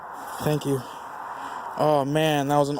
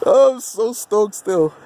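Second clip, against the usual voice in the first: stoked; 5 semitones higher, 4 dB louder, slower than usual. Real, not acted. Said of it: "I sound like a foreigner".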